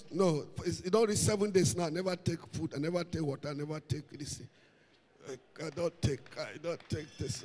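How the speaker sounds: soft, drooping mock complaint, sinking to near hush. Mimicking a faster's complaints.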